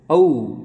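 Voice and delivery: "औ" said loud as a gliding au; vowel demonstration. Shown as a demonstration. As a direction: sound out "औ" clearly, gliding from a to u. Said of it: "इसकी मात्रा का आवाज़ कैसे होगा?".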